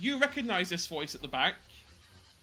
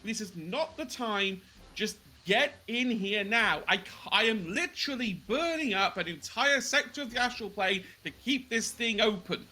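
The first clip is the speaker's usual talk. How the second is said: urgent exasperation; 3 semitones higher than usual. Acted. Carlisle to the party while holding the portal open, urgent. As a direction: hurry them in, exasperated.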